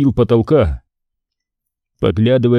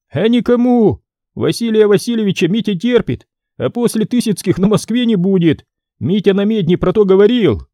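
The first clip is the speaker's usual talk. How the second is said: put-on gloating boy; 9 semitones higher than usual.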